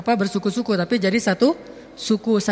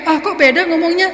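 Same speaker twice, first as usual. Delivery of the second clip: mock shocked; 5 semitones higher, 4 dB louder than usual. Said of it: "kita kaget".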